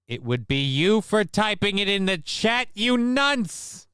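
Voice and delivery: hammed-up telling off; squealing mock rebuke; mock yell at chat. Scolding chat jokingly.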